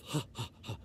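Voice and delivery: low, soft deliberate ha-ha-ha; spaced, put-on laugh syllables; demonstrated laugh. Shown as a demonstration. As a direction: show a laughing exercise, low and quiet. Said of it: "So laugh".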